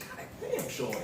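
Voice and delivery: high, breathy exclaim of disbelief; mock amazement. Man teasing girlfriend over old photos, mock stunned. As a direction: act floored looking at old photos. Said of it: "I'm like".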